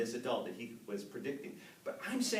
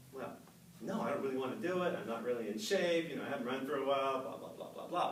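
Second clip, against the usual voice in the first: hurried excuses; 2 semitones lower, faster than usual. Retold or imitated. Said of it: "what I should have said".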